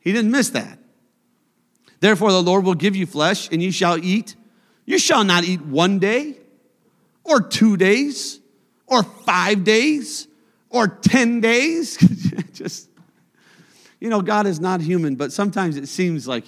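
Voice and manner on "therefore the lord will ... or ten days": slowing down on each count of days; building emphasis. Acted. Preacher reading God's threat to the congregation, slowing on each day. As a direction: drag out or two days, or five days, or ten days.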